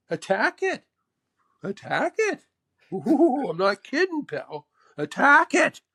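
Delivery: high-pitched mentor impression in punchy questions and answers. Mentor urges player to attack, imitated high and punchy. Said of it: "He says".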